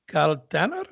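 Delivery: put-on questioning Italian-accented name; Italian accent with a rising question; imitated Italian accent. Mimicking Pavarotti saying his name.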